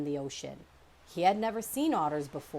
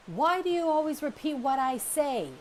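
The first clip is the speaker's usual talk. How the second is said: high, louder exasperated snap at a brother; annoyed scolding; 9 semitones higher, 5 dB louder than usual. Acted. Sister bear scolding her echoing brother, loud and exasperated. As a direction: scold him for copying you.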